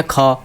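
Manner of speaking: ख said as a short breathy burst; unvoiced letter demo. Shown as a demonstration. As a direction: say ख to show there is no vibration. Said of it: "इसमें कोई कंपन नहीं हो रहा".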